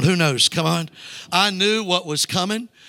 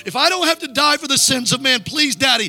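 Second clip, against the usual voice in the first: pleading prayer; 6 semitones higher than usual. Acted. Jesus pleading with God.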